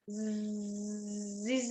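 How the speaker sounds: long, low buzzing zzz; sustained voiced z, quietly humming; vibrating buzz. Shown as a demonstration. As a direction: demonstrate a steady z vibration. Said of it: "it is vibrating".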